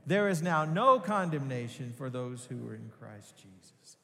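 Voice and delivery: ringing joyful confession of faith. Shown as a demonstration. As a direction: proclaim it with all your heart. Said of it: "Say it with all your heart, with joy".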